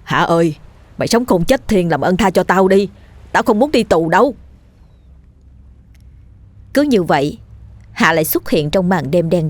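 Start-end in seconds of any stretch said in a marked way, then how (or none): 0.0-4.3 mildly whining, pleading voice; tearful begging. Acted. Dần begging the ghost to spare him, tearfully. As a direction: beg with a touch of tears. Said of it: "Dần lại khóc lóc van xin".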